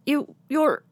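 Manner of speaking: flustered stammer; stuttered. Acted. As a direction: trip over the words in shock. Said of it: "Muley stuttered".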